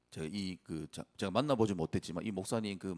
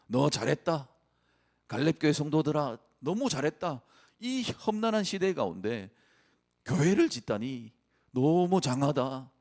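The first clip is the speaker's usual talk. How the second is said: higher, louder fatherly praise; God's encouraging voice; 5 semitones higher, 4 dB louder than usual. Pretend. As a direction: cheer them on like a proud father. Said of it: "이렇게 말씀하지 않을까요".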